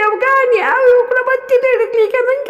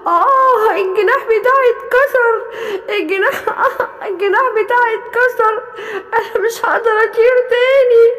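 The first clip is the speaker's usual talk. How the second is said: bird with broken wing crying. Acted. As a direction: beg for a doctor, hurting.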